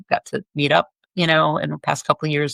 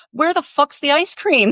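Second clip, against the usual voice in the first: gruff rock star demand; 10 semitones higher than usual. Retold or imitated. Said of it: "looks me up and down and goes".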